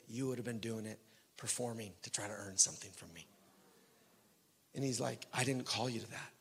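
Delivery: gentle divine voice. Retold or imitated. Voicing the Lord's words.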